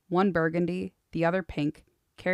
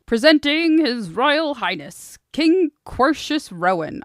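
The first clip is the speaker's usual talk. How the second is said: pompous fussy courtier; 9 semitones higher, 9 dB louder, slower than usual. Acted. Orator announcing the king.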